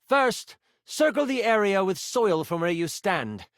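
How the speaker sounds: lightly voiced enchanter giving orders; instructing mentor. Mentor dictates binding steps to apprentice, lightly voiced and firm. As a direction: dictate each step deliberately.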